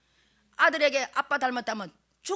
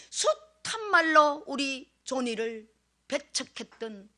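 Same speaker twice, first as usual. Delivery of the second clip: tearful confession; 2 semitones higher, 4 dB louder, slower than usual. Real, not acted.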